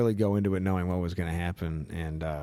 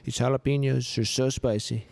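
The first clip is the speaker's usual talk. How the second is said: higher-pitched, emphatic presidential impression; boastful politician impression, pitched up; Donald Trump; 7 semitones higher, 3 dB louder than usual. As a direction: marvel at the produce in a politician parody. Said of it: "I was Trump for".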